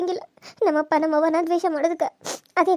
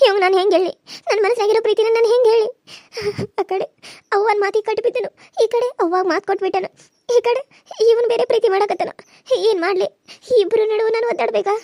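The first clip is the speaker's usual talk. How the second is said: crying despair. Acted. Girl crying over her promise to her mother and Mahesh's love. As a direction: cry out torn between two loves. Torn between mother and lover.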